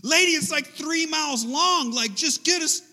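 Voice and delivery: high, loud, hammed-up pleading; mock exasperation. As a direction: beg in acted desperation. Acted frantic plea to the officer.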